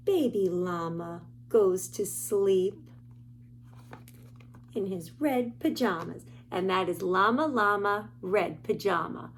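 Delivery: lively sing-song picture book reading; reading to children. Acted. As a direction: read the rhymes to little listeners.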